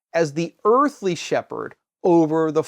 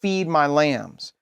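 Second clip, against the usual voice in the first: slow solemn quote; slower than usual. Retold or imitated. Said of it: "what does Jesus say?".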